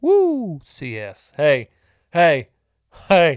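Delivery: excited, very loud, very slow, booming whooping yell. Reacting to a quote just read out, yelling. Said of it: "Sorry for yelling".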